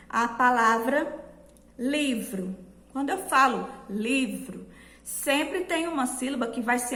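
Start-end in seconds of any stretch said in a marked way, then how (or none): 1.8-2.6 devagar. Shown as a demonstration. 3.9-4.7 devagar. Shown as a demonstration.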